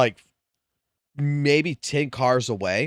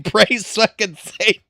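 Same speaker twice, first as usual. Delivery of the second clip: mock scream; 8 semitones higher, 3 dB louder than usual. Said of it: "I'm screaming".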